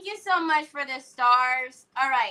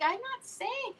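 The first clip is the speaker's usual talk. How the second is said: coy voice; 10 semitones higher, 9 dB quieter than usual. Retold or imitated. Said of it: "I was like".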